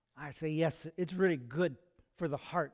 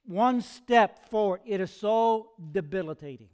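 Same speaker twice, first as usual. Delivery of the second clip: emphatic plea; 2 semitones higher, 7 dB louder than usual. Acted. Preacher voices Paul's prayer to God, emphatic plea. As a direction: plead it out, leaning hard on the key words.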